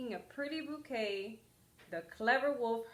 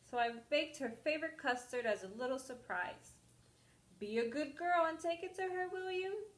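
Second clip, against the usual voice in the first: mother's voice; 6 semitones higher than usual. Acted.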